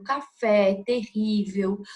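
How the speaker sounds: caFÉ, teRRÍvel, tonic syllables brought out; stressed-syllable demo. Shown as a demonstration. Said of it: "para marcar que é uma sílaba tônica". (café com ênfase no FÉ, terrível com ênfase no RRÍ)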